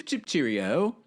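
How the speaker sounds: cheeky pretend-British lilt, rising at the end; mock English accent. Repeating the London joke to viewers, in a mock English accent. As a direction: play at being English. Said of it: "I'm gonna be like".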